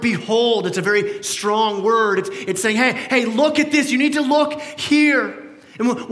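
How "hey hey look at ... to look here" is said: raised, urgent "look at this"; a louder, higher call to look. Acted. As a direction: grab their attention. Urging listeners to behold.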